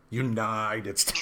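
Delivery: slow robotic auto-tune imitation; auto-tuned voice. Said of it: "it was, like, auto-tuned".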